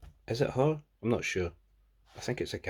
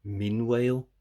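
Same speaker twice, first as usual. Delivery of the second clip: flat caption read; 3 semitones higher, 6 dB louder, slower than usual. Shown as a demonstration. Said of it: "That's not just, like".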